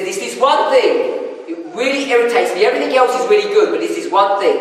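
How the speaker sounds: mildly hammed-up irritation; aggravated wife. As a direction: voice a wife at the end of her patience. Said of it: "this woman looks really aggravated".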